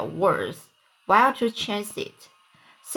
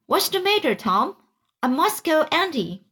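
higher-pitched acted worry; alarmed; 7 semitones higher than usual. A narrator's reading. Sid frets over groaning Tom, alarmed. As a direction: voice a boy's alarm, lifting high.

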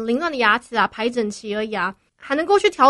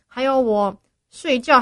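talking through dental aligners; words shaped around a brace; 3 dB louder than usual. Real, not acted. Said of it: "我觉得我牙齿现在已经压力很大了".

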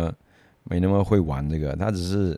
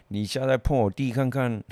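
retold older-brother threat, pitched higher; confronting threat; 5 semitones higher than usual. Big brother warns the bully off his sibling, confronting threat. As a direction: warn off a bully, not shouted. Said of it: "直接跟他呛说".

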